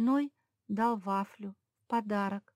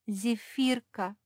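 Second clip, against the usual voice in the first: cried out; 4 semitones higher, 3 dB louder, much slower than usual. Acted. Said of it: "закричала Левретка".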